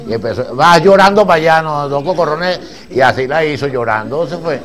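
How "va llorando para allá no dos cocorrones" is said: gruff retold quote. Man after hitting the child.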